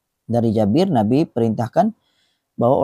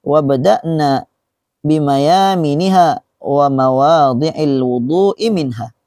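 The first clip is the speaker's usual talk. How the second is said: slow, deliberate recital with long held vowels; Arabic hadith recitation; slower than usual. Acted. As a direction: recite the Arabic phrase by phrase, drawn out. (pembacaan hadis Arab dengan tempo lambat)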